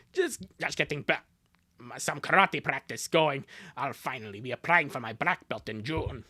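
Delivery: low, slightly put-on sibling voice; lightly voiced karate sister. Sister telling brother about karate practice, lightly low-voiced.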